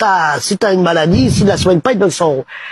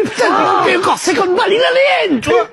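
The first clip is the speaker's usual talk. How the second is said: higher, shouted curse; angry outburst; 8 semitones higher than usual. Retold or imitated. David fumes at the doctor's trick, shouting. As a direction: blurt out the rage at paying again. David furious at losing money.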